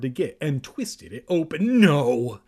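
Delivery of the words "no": loud, drawn-out shriek of refusal. A narrator's reading. Evan panics as the can is opened, shrieking. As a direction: shriek it out at full volume. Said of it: "Evan shrieked".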